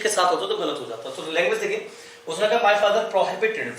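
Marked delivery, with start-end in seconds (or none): 2.6-3.8 very slow, word by word; slow dictation. Shown as a demonstration. Teacher dictating a sentence to students, very slow. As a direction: spell it out slowly so students can write.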